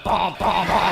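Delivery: punchy "bom, bom, bom" noises; imitated bouncing sound. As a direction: mimic a bouncing vehicle with vocal booms. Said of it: "cross the road and go".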